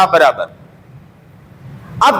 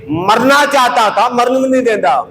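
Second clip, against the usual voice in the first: higher-pitched, mildly indignant protest to God; retold angry complaint; 4 semitones higher than usual. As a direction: quote an aggrieved protest, pitch raised but no shouting. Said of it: "اتنے غصے میں آئے". (نقل کیا ہوا ہلکا غصہ، اونچے سُر میں شکوہ)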